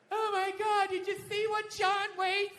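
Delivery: hammed-up appalled gasp of a complaint, held high; outraged white people. Woke white people outraged over John Wayne's old interview, mock outrage. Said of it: "stupid-ass woke white people".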